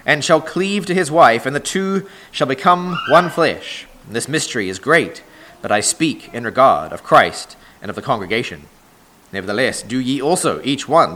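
measured, solemn Bible reading from the pulpit; scripture reading. Acted. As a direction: read the verses aloud to the congregation, weighty and deliberate.

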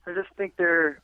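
words broken by a burp. Real, not acted. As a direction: burp slipping out mid-sentence. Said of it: "excuse me for that burp".

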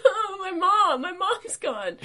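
high, loud wailing through laughter; panicked dog voice. Retold or imitated. Voicing the dog missing its owner, high laughing wail. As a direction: wail like a lost puppy, laughing. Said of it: "He's like".

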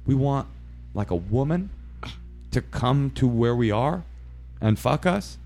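halting, rising ask; hesitant imitation of awkward callers; tentative request. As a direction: ask sheepishly, phrase by phrase. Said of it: "And they're like".

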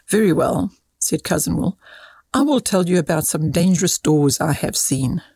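lively, measured storybook reading; expressive story read aloud; children's story narration. A narrator's reading. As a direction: read a short moral tale to children.

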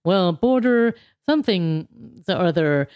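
mumbled Biden impression, trailing away; lightly voiced muddled politician; vague Biden imitation. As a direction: imitate a vague old president losing the thread. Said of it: "Biden literally just goes".

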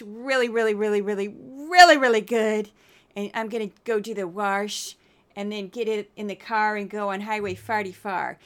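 put-on light, goofy Saint Louis mom accent; lightly hammed-up Saint Louis mom. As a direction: put on a hint of a Midwest-meets-South Saint Louis twang. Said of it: "I have to do my goofy voice".

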